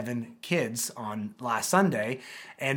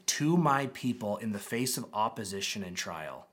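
pastoral blessing; 4 semitones lower than usual. Retold or imitated. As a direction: bless them gently. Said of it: "a pastor's heart saying".

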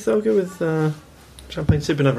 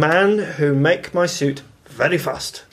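put-on Japanese accent; much slower than usual. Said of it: "it has to be said in a Japanese accent".

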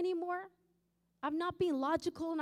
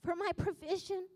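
louder, rising, commanding voice of God; a touch of a booming divine rebuke; retelling God's challenge, louder and commanding; 2 semitones higher, 6 dB louder than usual. Retold or imitated. God's voice retold in testimony.

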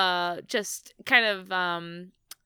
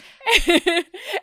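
laugh; 11 semitones higher, 8 dB louder than usual. Real, not acted. Laughing at the story.

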